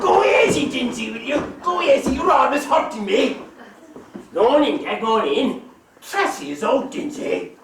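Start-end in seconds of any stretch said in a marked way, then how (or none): 0.0-3.4 sharp shout of pain and protest. Acted. Cousin shouts at his brother to stop hurting him. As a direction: yell at the rough cousin to go easy.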